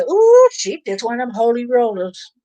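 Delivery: mock scoffing with a high Ooh; lightly acted teasing jibe; imitating mockery. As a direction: poke fun like a jeering onlooker. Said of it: "the way people make fun".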